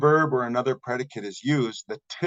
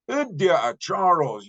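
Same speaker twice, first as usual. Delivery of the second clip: Udia'a said slow and higher, drawn out; emphatic Udia'a; 7 semitones higher, slower than usual. Shown as a demonstration. Teacher insisting to Charles that he really is, emphatic slow. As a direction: lean into Udia'a slowly to insist. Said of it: "you really are Charles".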